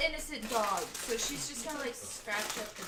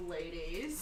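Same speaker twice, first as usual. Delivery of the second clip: deep Ladies line; 8 semitones lower, 5 dB quieter than usual. Retold or imitated. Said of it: "He went".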